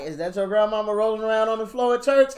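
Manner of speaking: high, loud teasing question with a laugh; mocking friend. Friend teasing about granny on the floor, loud and laughing. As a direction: tease the kid about granny. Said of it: "Hey, like".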